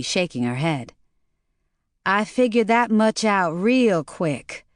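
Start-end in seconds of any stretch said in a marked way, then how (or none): 2.0-4.7 shuddering. Acted. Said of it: "Maureen said with a shudder".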